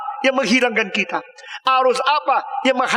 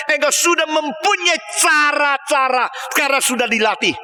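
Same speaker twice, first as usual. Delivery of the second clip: high, insistent accusation; Jesus accusing; 4 semitones higher than usual. Acted. Jesus confronts those misusing his name, high and accusing. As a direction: pile up the charges in a raised preaching voice. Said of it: "Yesus Kristus berkata".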